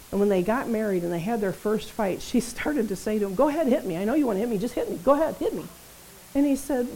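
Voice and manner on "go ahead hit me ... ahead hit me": higher, retold defiant dare; taunting wife. Minister friend daring her husband in their first fight, higher defiant taunt. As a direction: goad him like you expect it.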